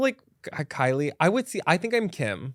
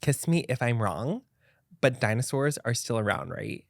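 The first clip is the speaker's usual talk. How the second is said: put-on Valley Girl voice; 3 semitones lower, 5 dB quieter than usual. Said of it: "my best Kim K voice or my best, like, Valley Girl voice".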